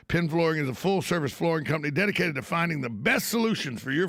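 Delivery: steady, practised ad read; radio sponsor read. Real, not acted. Host thanking sponsors to radio listeners, ad read. Reads sponsor credits on air.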